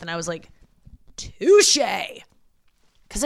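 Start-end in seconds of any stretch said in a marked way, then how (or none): 1.2-1.8 mock dramatic touché. Retort quoted to parents.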